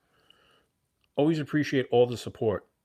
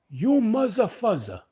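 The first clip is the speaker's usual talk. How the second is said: higher, louder and slow, mock Jewish accent insult; heavy Jewish accent; 12 semitones higher, 7 dB louder, slower than usual. Shoe seller scolding haggling kids, loud mock Jewish accent. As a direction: fling the insult in his thick Jewish accent. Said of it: "'cause he was Jewish".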